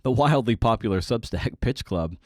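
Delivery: laughing through it. Real, not acted. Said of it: "I don't know why I laugh".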